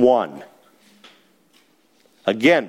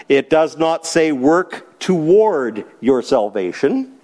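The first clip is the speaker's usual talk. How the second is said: not leaned on, slow, in each repeated sentence; stress on not; slower than usual. Shown as a demonstration. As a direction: press the not every time, slowly. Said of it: "I underlined not six times".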